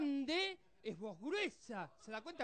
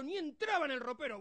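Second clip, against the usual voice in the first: ordinary talk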